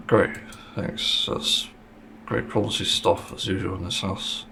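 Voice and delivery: dry sarcastic thanks; deadpan, mock gratitude. Real, not acted. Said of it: "I'm saying being sarcastic".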